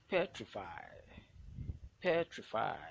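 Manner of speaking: Petrify with a very loud first syllable; teacher's demo of PET-rify; stressed syllable. Shown as a demonstration. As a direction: punch PET hard in Petrify. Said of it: "the one that will be pronounced louder".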